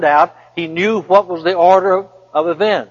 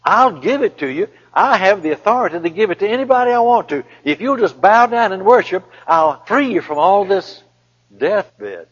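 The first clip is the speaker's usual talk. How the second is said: lightly voiced tempter, higher on the offers; eager sales pitch, pitched up, dropping at the end; Satan tempting; 4 semitones higher than usual. Satan offers Jesus a way out, coaxing. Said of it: "Satan said".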